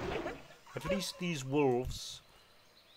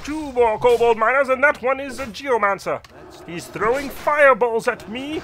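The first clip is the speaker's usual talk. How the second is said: high, much louder, urgent calling out; frantic alarm; 10 semitones higher, 12 dB louder than usual. Acted. Paladin cries out as a geomancer throws fireballs. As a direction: shout the danger as fireballs fly.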